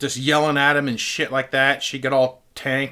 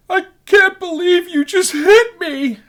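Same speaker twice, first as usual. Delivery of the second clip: high, drawn-out fake wail; put-on sobbing whine, pitched way up; mock hysterical crying; 3 dB louder, slower than usual. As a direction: imitate a hysterical woman wailing. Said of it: "started crying hysterically".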